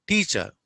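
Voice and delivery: teacher with the final r dropped. Shown as a demonstration. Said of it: "you have to pronounce it as".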